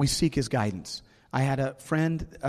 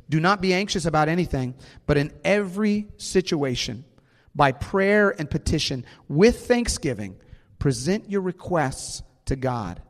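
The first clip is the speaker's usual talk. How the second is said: scripture reading; 3 semitones higher than usual. Acted. Reads scripture aloud.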